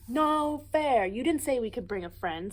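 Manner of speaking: high, loud protest; loud complaint. Acted. Big brother protesting from the perch, loud and high. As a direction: cry out that it's unfair. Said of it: "said a voice".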